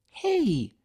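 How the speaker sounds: high sharp shout. A narrator's reading. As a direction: call the possums off. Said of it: "she shouted at the possums".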